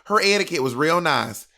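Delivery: lightly put-on white Southern accent. Shown as a demonstration. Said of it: "that's white Southern".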